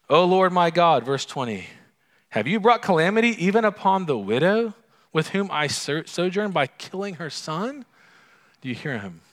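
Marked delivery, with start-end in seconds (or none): 0.1-1.0 high, loud anguished cry; crying out to God. Acted. Prophet crying out to God over the dead boy, loud and high. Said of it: "And he's crying out". 2.3-7.8 high, loud anguished cry; crying out to God. Acted. Prophet crying out to God over the dead boy, loud and high. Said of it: "And he's crying out".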